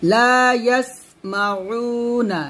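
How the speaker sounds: ইয়াসমাউনা with air let out on the স; breathy sin. Shown as a demonstration. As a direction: let the breath flow through the স. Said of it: "বাতাস বের করবেন অবশ্যই". (স-এ বাতাস বের করে)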